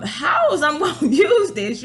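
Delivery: slow question broken by laughter; laughing confusion. Retold or imitated. Calling the store, laughing in confusion. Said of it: "I was like, um".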